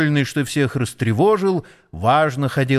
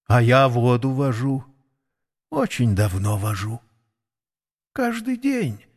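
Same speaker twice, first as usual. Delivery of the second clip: put-on confused old nag. A narrator's reading. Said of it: "растерянно говорила Вакса".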